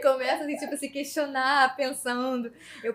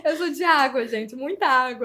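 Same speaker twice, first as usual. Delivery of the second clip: laughing self-mockery, higher and louder; 3 semitones higher, 5 dB louder than usual. Real, not acted. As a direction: confess it through a laugh. Brinca que chora fácil. (falando entre risos)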